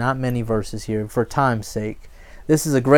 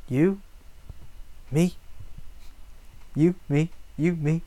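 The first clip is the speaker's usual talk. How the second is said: put-on puzzled young man; 9 dB quieter than usual. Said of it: "Young man's looking like".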